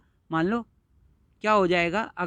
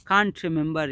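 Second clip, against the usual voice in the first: mild calm; much slower than usual. Acted. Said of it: "वही ठंडे दिमाग से बड़े आराम से बोलती है".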